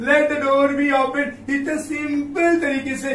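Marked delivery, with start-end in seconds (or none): 0.1-1.5 slow, even teacher reading; slow dictation. Shown as a demonstration. Teacher to children completing the example sentence, slowly. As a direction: say it slowly so they can write it. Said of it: "लिखेंगे let".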